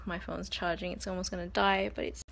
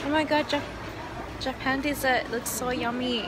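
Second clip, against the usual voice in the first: excited; 5 semitones higher than usual. Real, not acted. Showing viewers Japanese desserts, excited. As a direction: gush to the viewers, pitched up.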